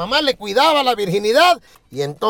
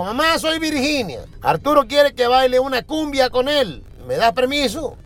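sweet daughter on the phone; 2 semitones higher than usual. Acted. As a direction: ask mom politely, slowly, like a good girl. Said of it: "le llamó por teléfono a la mamá y le dijo".

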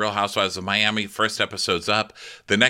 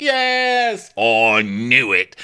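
high then slow, louder "I knew it"; mock whine; 4 semitones higher, 7 dB louder, much slower than usual. Host imitating Nathan's answer, whiny. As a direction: whine it like a sulking injured man. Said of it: "He's like".

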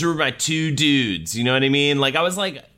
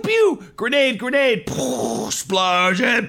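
grenade warning yell; 11 semitones higher, slower than usual. Pretend. Acting out action scenes.

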